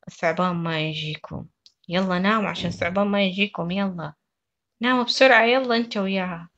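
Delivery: put-on scare the kids into sleep with a big voice; booming fairy-tale telling to crying babies; loud storytelling. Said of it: "صوتك مرة عالي وأنت قاعدة تحكي لهم القصة".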